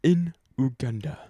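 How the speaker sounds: put-on a first, hesitant try at a Ugandan accent. Friend joking about the school visitor, faint Ugandan accent. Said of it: "I shouldn't do that accent".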